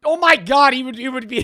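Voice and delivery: high, loud burst of disbelief; excited shriek. Real, not acted. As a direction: squeal it out, stunned. Reacting to copper theft.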